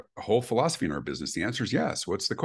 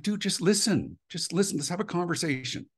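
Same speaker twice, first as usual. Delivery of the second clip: exasperated plea; 10 semitones higher than usual. Retold or imitated. Caller begging script-reading agent to listen, exasperated plea. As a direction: act out pleading with someone to hear you out.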